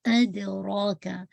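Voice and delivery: ادراکا slowly, with the dal bounced as qalqalah; slow tajweed demo. Shown as a demonstration. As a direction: stretch ادراکا and echo the د. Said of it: "ڈال پہ آپ نے قلقلہ کرنا ہے".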